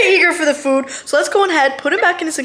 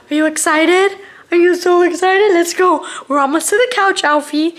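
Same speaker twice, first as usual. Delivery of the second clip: higher, louder, bubbly pet talk; 5 semitones higher, 3 dB louder than usual. Real, not acted. Mom hypes up baby monkey on the way to the couch, high and bubbly. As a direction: hype the little one up.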